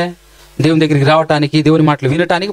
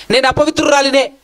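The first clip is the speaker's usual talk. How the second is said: woman's confession; 6 semitones higher than usual. Pretend. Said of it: "అని చెప్పగలిగేటటువంటి యథార్థమైన మనసు".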